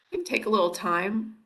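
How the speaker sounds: hoarse, raspy tired voice. Real, not acted. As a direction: talk through a raspy throat. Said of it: "sick of hearing my raspy voice".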